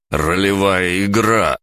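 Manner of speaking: high, loud, drawn-out cry; exclaiming. A narrator's reading. Artyom insists to Konrald it is a role-playing game, crying out. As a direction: shout the revelation. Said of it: "вскричал я".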